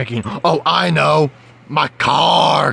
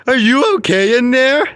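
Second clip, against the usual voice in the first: shocked screaming; 12 semitones higher, slower than usual. Acted. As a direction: freak out in disbelief.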